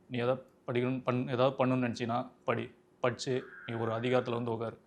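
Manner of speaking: subdued film-hero impression, slightly low; Asuran film hero. Father advising Chidambaram to study, subdued film-hero impression. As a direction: quietly deliver a father's film dialogue as mimicry. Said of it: "அசுரன் படத்து dialogue பேசியிருந்தேன்".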